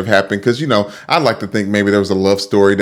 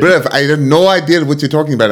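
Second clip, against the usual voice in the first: hammed-up, fast fake British-Irish accent, a bit louder; bad British accent; 4 semitones higher, 3 dB louder, faster than usual. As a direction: play a deliberately bad British accent to tease your co-host. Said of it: "Is that a great Irish accent? A great British accent?".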